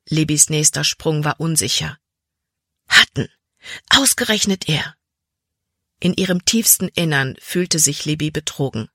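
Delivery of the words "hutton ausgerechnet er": outraged exclamation. A narrator's reading. Girl realizing her trusted friend betrayed her, outraged cry. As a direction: spit out the name in disbelief.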